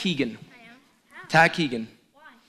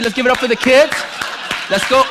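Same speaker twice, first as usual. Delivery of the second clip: hyped applause call; 8 semitones higher, 9 dB louder than usual. Real, not acted. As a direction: get the crowd clapping.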